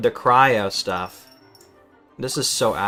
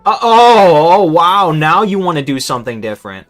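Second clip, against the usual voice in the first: loud, high wail easing into a quicker retort; exasperated outburst; 5 semitones higher, 9 dB louder than usual. Real, not acted. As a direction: open on a big raised cry of protest, then ease off. Exasperated reaction to opponent's move.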